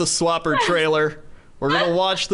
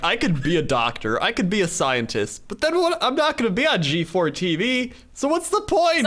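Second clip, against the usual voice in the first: dumb bro voice; 7 semitones higher than usual. Retold or imitated. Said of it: "their thought process".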